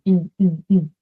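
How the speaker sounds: short "n", as in envy, repeated; "n" alone, cut from the word; isolated N sound. Shown as a demonstration. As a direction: sound out a bare "n" three times. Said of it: "different sounds belonging to the same phoneme".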